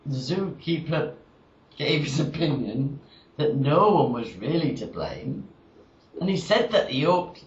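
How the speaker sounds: measured, drawn-out monologue delivery; storytelling verse with lines falling away at the end; comic verse recitation. Acted. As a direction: recite it as a deadpan rhyming tale.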